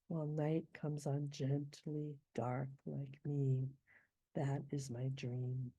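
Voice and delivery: slow rhythmic poem reading; anapestic verse. Shown as a demonstration. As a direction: read it with the beat, unhurried. Reading the stanza.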